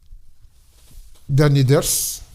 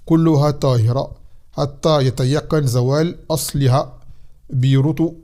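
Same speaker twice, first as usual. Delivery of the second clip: reading text aloud; faster than usual. Acted. Teacher reads the commentary to students, formal read-aloud. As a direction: read out a classical text, phrase by phrase.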